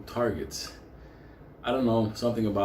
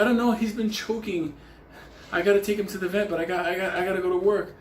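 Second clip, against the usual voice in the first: higher-pitched impression of a worried neighbor; retold worried neighbor; 8 semitones higher, faster than usual. Neighbor explains the sick cat to Benny, lightly mimicked worry. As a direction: lightly voice a woman fretting, pitched up.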